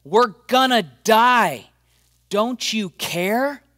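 high, loud, slow terrified wail; hammed-up cry of disciples sure they will drown; panicked scream. Disciples screaming to Jesus in the storm, high and drawn out. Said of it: "they're screaming this to Jesus".

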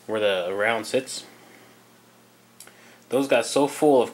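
talking around a flashlight in the mouth. Real, not acted. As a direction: speak with a flashlight held in your teeth. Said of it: "I gotta put the flashlight in my mouth".

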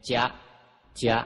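short "จ๊ะ" blending j with y; Magadhi letter sound. Shown as a demonstration. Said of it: "ออกเสียงจอจานกล้ำยอยักษ์เป็น".

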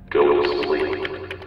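slow, eerie, drawn-out threat; a killer's creepy lullaby line; killer's slow whisper. Acted. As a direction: lull them to sleep menacingly. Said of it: "Jeff Myers said".

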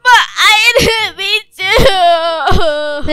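slow, drawn-out sobbing apology; fake crying. Brittany to her stepdad after being grounded, badly faked crying. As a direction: beg forgiveness through a badly faked cry. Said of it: "enough of that crying".

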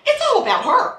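high laughing scoff; mock her self-pity with a laugh; amused contempt; laughing scorn. Real, not acted. Scoffing at the apology.

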